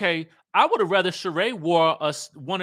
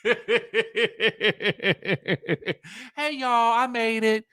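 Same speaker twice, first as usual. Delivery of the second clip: imitating the contestant; 4 semitones higher than usual. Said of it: "it's just giving me".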